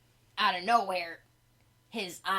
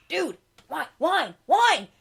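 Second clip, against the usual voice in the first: rising yelps of wine, getting louder; frantic craving; 8 semitones higher, 11 dB louder, slower than usual. Retold or imitated. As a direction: beg for it like a desperate addict. Skeleton going nuts for wine.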